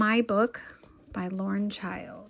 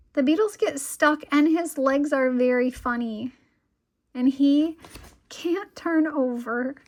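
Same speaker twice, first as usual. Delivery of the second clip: higher and louder, slowing at the end; gleeful little girl describing bugs; excited child; 6 semitones higher, 6 dB louder than usual. Acted. Lola excitedly describing beetles.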